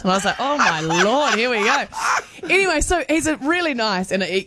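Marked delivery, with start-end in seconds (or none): 0.4-1.8 mock dread. Retold reaction to political talk starting.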